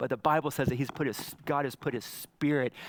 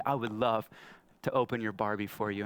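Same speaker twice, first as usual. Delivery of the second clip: tender dad; 4 semitones lower than usual. Retold or imitated. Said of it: "I said".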